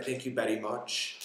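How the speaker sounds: light Indian accent on the thanks. Shown as a demonstration. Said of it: "with my Indian accent".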